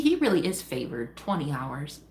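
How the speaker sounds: low, unimpressed repeat; incredulous shade. Real, not acted. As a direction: mutter it back in disbelief.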